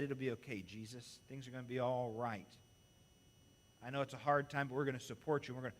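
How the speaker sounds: mock-comforting, kept low and gentle; gentle reassurance. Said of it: "No, that's not what it says".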